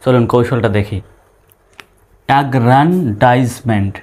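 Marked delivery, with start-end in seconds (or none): 2.3-3.9 অ্যাগ্রান্ডাইজমেন্ট slow, in separated chunks; broken into syllables. Shown as a demonstration. Teacher demonstrating the syllable method, broken into syllables. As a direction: split অ্যাগ্রান্ডাইজমেন্ট as agran, daiz, ment. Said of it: "syllable অনুসারে ভেঙে ভেঙে উচ্চারণ করব".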